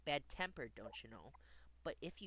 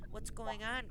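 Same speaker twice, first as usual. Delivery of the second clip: higher, louder demand; calling out; 6 semitones higher, 6 dB louder than usual. A narrator's reading. Riders and crew to stalled engine, calling out. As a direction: call it out as impatient passengers. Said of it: "called the riders and crew".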